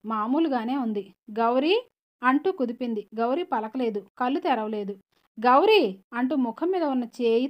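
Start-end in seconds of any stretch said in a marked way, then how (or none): 1.3-1.8 rising, uncertain call of the name; questioning call. Acted. Sister shaking silent Gauri, a puzzled rising call. 5.4-6.0 louder, sharp falling cry of the name; alarmed exclamation. Acted. Sister seeing Gauri's face, loud startled cry.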